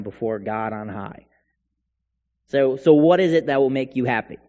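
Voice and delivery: a touch of sarcastic exasperation; mild sarcasm. Acted. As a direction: ask God with understated, mock-helpful sarcasm. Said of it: "they sarcastically say this to God".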